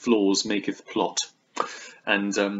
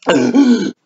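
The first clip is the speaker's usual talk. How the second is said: loud throat noise; 12 semitones higher, 12 dB louder than usual. Real, not acted. Loud wordless noise before resuming.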